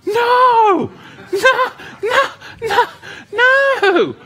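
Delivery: high, loud laughing protest; giggling high-pitched refusal. Retold or imitated. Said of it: "I'm like".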